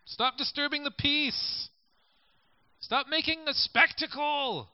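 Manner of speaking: high, slow rebuke; mock stern order; scolding crowd. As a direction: tell the beggar off. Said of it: "they're told to be quiet".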